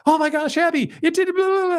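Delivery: squeaky high, thrilled burst; giddy excitement. Retold or imitated. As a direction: gush like a kid with a new toy. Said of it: "I would come out and be like".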